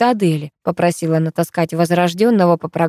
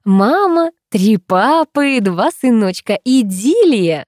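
higher, slow teasing sing-song; mocking sing-song; 5 semitones higher, 3 dB louder, slower than usual. A narrator's reading. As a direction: tease them with a drawn-out idyll. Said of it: "завела прежнюю песню Велена". (высокая, медленная дразнилка)

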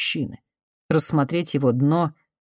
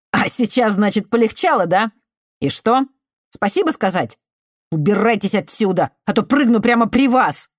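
high, loud mocking fury; sarcastic angry yell; 7 semitones higher, 4 dB louder than usual. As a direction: scorn her, then threaten. Artemiy threatens to jump.

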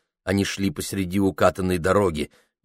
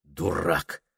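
much softer muttered self-rebuke; man cursing himself in his head, much softer; inner self-curse; 2 semitones lower, 6 dB quieter than usual. A narrator's reading. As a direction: scold yourself under your breath. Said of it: "мысленно выругал себя".

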